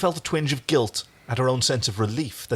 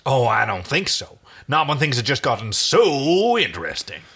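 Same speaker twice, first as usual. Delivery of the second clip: taunting; 3 semitones higher, 4 dB louder than usual. Acted. Crichton taunting.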